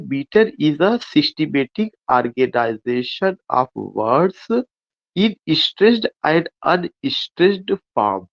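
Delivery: very slow, deliberate reading of a definition; definition dictation. Acted. Teacher dictates the definition of meter to the class, very slow. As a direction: spell it out slowly like dictating notes.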